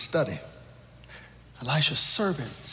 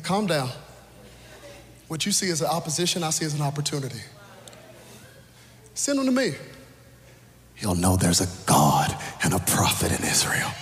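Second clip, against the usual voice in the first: cool, calm and collected. Retold or imitated. Elisha calming the panicked king, cool and collected. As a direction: settle them down, cool and collected. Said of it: "cool, calm, and collected".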